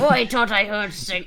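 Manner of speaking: exaggerated broad rural dialect; much thicker country accent. Told to go thicker, reader tries a broad country accent. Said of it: "it's a lot thicker than that".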